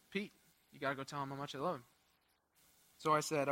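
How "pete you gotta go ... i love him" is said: lower, softer, fast insistent voice of Jesus; persistent Jesus. Retold or imitated. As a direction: press it gently but firmly, quickly. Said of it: "persistently said".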